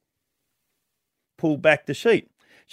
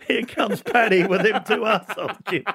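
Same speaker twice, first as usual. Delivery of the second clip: put-on Irish accent; 4 semitones higher than usual. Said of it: "tell the whole joke in an Irish accent".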